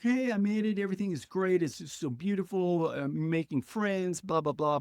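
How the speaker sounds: mock-breezy report that all is fine, easing off; retold show of good spirits; putting on cheerfulness. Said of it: "But deep down inside, I was".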